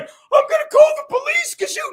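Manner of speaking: high squeaky mock of a complainer; mocking whiny voice. Host mocking critics who threaten police, high squeaky. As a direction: squeal it like a hysterical tattletale. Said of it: "Imagine someone's like".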